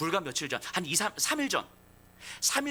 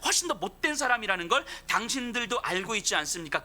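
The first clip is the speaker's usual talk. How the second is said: earnest preaching; 3 semitones higher than usual. Acted. Peter voiced preaching to crowd.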